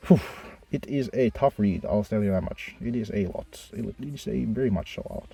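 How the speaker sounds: muffled, boxed-in sound; muffled in a closet. Real, not acted. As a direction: speak from inside a closet. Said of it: "I'm recording this in my closet".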